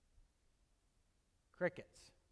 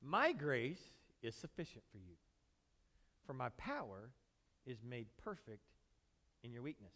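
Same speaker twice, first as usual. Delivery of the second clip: calm, fading answer; God's answer; 6 semitones lower, 6 dB quieter than usual. Retold or imitated. God answering Paul in a calm, dropping voice. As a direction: let it settle softly, lower and lower. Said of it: "He said it like this".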